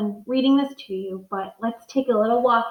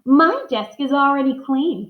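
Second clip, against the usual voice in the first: proud; 4 semitones higher, 3 dB louder than usual. Acted. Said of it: "Philip said proudly".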